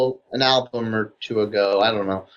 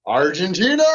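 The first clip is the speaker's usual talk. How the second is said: high shout rising at the end; yelling out; 7 semitones higher than usual. Retold or imitated. Player re-enacts yelling along to a live song, high yell. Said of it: "involves you actually yelling".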